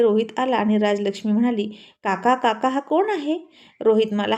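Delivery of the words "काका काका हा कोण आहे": a lightly voiced little girl, asking. Little girl asking uncle who the boy is, lightly childlike.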